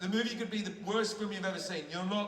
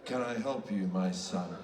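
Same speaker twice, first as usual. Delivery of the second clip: lightly voiced Jesus; 10 semitones lower than usual. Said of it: "Jesus answers the leper".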